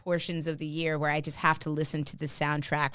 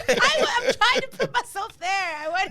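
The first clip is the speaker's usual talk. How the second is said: fake German accent; 6 dB louder than usual. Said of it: "Like, you just put on an accent".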